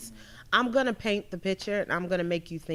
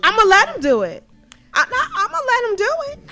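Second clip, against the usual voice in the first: mock compliant; 14 semitones higher, 12 dB louder than usual. Mock agreeing, high pitched.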